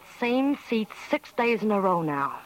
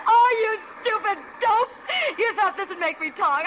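scornful jeer; 10 semitones higher than usual. Acted. Mocks him.

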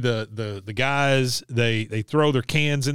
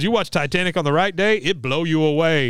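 mother's voice; 4 semitones higher, 3 dB louder than usual. Retold or imitated. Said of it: "She goes".

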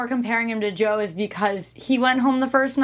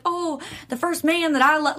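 slipping lightly into a southern accent; accidental southern accent. Real, not acted. Co-host explaining a phrase about dads, slight southern accent. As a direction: let a little southern twang creep in. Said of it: "I got a southern accent".

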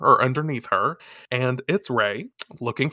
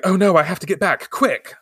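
higher, hurried mock panic; acted alarm; 6 semitones higher, 4 dB louder than usual. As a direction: play a girl suddenly rushing. Girl hears bell, must rush.

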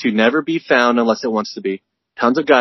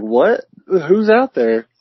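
high, slow call into the dark; hammed-up startled hunter; mock hunter calling out; 7 semitones higher, much slower than usual. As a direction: call out to an unseen stranger.

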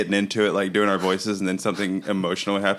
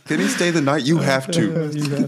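high Texan voice, drawn out at the end; Texan accent; 7 semitones higher, slower than usual. Acted. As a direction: stretch it out in a put-on Texan accent. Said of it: "very good Texan accents".

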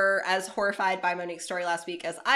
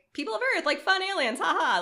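goofy alien voice; 10 semitones higher, 3 dB louder, faster than usual. Pretend. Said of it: "It was, like, not like".

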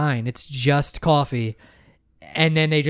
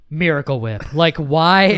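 being dramatic; 4 dB louder than usual. Real, not acted. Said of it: "I'm being dramatic".

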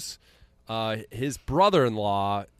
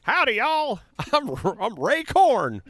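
hick voice; 13 semitones higher, 7 dB louder than usual. Pretend. Podcaster jokingly introduces himself as Ray Korn in a goofy yokel voice.

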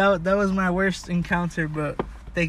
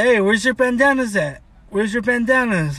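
acted cop questioning; 5 semitones higher, 5 dB louder than usual.

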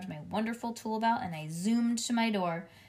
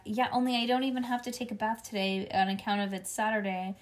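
ordinary delivery, nothing marked

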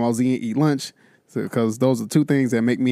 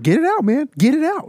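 mock boss; 13 semitones higher than usual. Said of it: "my boss is just like".

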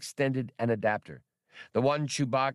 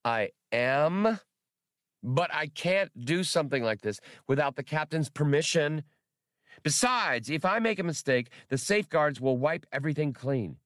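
put-on high, hurt childish droid; wounded tone; 6 semitones higher than usual. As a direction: sound a little offended, like a kid. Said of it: "Max achieved a wounded tone".

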